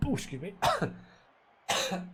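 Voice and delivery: hiccuping between words; talking through the hiccups. Real, not acted. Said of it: "I'm getting the hiccups".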